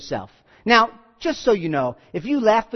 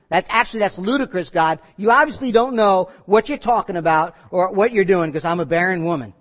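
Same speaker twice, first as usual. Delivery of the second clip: mildly scoffing objection; skeptical disbelief. Acted. Barren Sarah telling God it's ludicrous, disbelieving. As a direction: argue back with understated disbelief. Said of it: "a disbelief, like".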